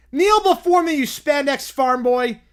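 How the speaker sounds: loud, high commanding villain; dark lord. Acted. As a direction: roar the order like a tyrant. Villain kid commands Superman.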